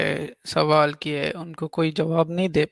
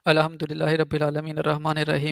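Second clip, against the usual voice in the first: quick rhythmic Quranic recitation; prayer recitation; much faster than usual. Shown as a demonstration. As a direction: rattle off the prayer verse fast. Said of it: "नमाज सुना दे जैसे आप पढ़ते थे".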